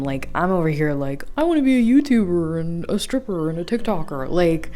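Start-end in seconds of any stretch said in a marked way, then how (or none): 1.4-4.3 fast, eager, a bit louder; eager rush. Retold or imitated. Telling of her big plans, fast eager rush. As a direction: rattle off dreams in one excited breath.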